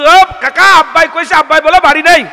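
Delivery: high, loud sing-song call; child calling out. Acted. Son calling out his father's lie to the visitor. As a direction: shout the excuse across the yard.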